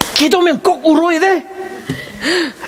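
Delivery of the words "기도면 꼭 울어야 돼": high, quick, dismissive voice. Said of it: "That's exactly my word to my wife".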